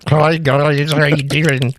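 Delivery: mock women's echo. Guessing how women would greet the guys, silly put-on echo voice. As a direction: greet them in a silly imitation of a woman's echo. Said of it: "I think women's would just be like".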